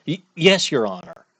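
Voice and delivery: a hint of jittery beginner stutter; nervous rookie lawyer. Rookie lawyer answers the judge, nervous stammer.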